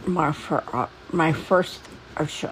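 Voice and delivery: talking with no teeth; words mushy from missing teeth; toothless speech. Real, not acted. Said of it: "I'm sorry, I have no teeth".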